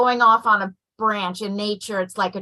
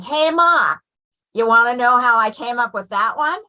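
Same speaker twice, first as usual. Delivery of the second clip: playful mock wise-guy kid; imitated gangster-like son; 2 semitones higher, 4 dB louder than usual. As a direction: imitate a son calling out, a hint of old-time gangster. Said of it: "your son sounds like a nineteen thirties gangster".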